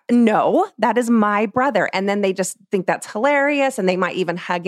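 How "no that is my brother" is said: louder playful counterclaim; teasing the six-year-old over her brother; mock possessive insist. Playful mock argument with child.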